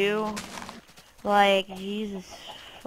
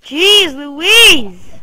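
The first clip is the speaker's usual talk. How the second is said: louder sing-song exasperation; exasperated exclaim; 5 semitones higher, 10 dB louder than usual. Real, not acted. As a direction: throw it out, fed up. Frustration at game.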